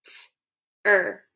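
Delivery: "T-er" split in two sounds; sounding out "T-er"; tapped sounds. Shown as a demonstration. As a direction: tap out "T-er". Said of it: "Tap it".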